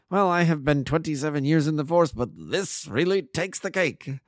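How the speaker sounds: high-pitched, drawing out the last phrase; amazed. A narrator's reading. Inspector after years in the force, amazed. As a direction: marvel at it, slowing down at the end.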